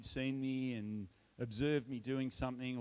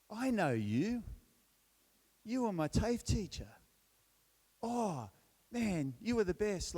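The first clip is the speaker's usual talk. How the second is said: excited greeting; 8 semitones higher than usual. Retold or imitated. Excited former student greets him.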